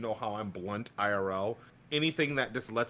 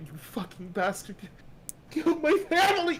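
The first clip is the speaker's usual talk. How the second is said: enraged, much higher and louder on "killed my family"; furious delivery; 4 dB louder, slower than usual. Shown as a demonstration. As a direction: tear into the killer with raw rage. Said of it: "but if you're like".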